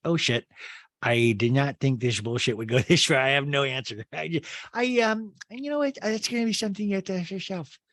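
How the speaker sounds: put-on Rinna, stammering then fast; flustered Rinna. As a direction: bluff your way out. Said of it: "Rinna's like".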